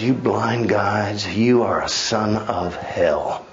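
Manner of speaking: slow and deliberate, a touch low; measured condemnation; solemn Jesus rebuke. Retold or imitated. Jesus rebuking the scribes, slow and grave. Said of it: "He says".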